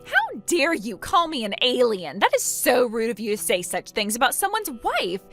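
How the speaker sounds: hammed-up wounded indignation; affronted, rising at the end; offended. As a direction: protest as if deeply insulted. Acted quarrel, Opal offended.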